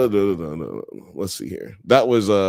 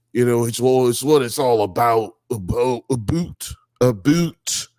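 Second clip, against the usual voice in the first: Bret Hart impression. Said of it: "That's exactly how he sounded".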